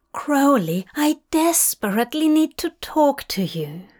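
high, urgent whispered plea; desperate whisper. Acted. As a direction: plead in a hushed rush. Aziraphale pleading at the door.

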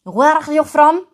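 put-on "Where" said with a harsh J-like throat sound, Israeli accent. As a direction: redo the stranger's Israeli accent with a guttural J. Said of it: "con la J". ("Where are you from?" con la J, acento israelí)

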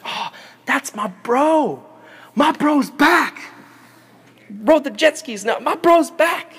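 high, drawn-out cheer; overjoyed brother. Retold or imitated. Joseph spots his long-lost little brother, overjoyed. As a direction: crow it with stretched, elated words. Acted joy at seeing brother.

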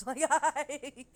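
high, loud mock French yelling; French-accented yell. Joking about Paris concertgoers, mock French-accented yell. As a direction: imitate a French crowd's yell, half laughing. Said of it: "their yelling even sounds French".

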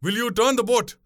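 high, outraged outburst; frantic accusation. A narrator's reading. Passenger calling boatwoman wicked, frantic and angry. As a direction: accuse and threaten, voice pitched high. Enraged passenger threatens to jump.

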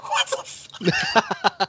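slow whispered what the fuck; whispered disbelief. Retold or imitated. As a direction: hiss it in stunned disbelief. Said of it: "I'm like".

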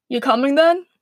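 light call to someone behind; calling over shoulder. A narrator's reading. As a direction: toss it back as a mild call. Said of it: "calling over his shoulder".

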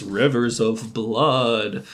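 slow, lightly spooky ghost voice; a hint of a ghost, drawn out slowly. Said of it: "Iris says in a ghost voice".

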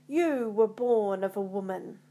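restrained battle shout. A narrator's reading. Macbeth to each opponent he cuts down, shouting.

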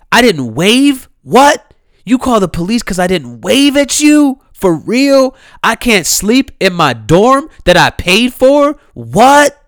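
high, loud disbelieving questions; outraged rising "For real?"; incredulous outrage. Retold or imitated. Incredulous recap of incidents.

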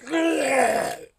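gag and heave like someone throwing up; imitated retching. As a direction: imitate a background retch, drawn out. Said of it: "you can hear him in the background going".

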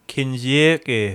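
drawn-out "Kinzoku" in a put-on Asian accent; mock Asian accent. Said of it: "In the Asian accent".

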